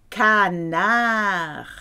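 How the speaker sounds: Canard said the French way, stress at the end. Shown as a demonstration. Teacher models Canard for learners, clear French. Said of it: "A duck in a can".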